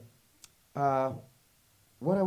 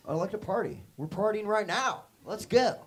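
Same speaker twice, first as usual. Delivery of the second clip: high, loud party shout; party dude hype; 7 semitones higher, 6 dB louder than usual. Acted. Party dude to the audience, excited hype. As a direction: hype up the crowd.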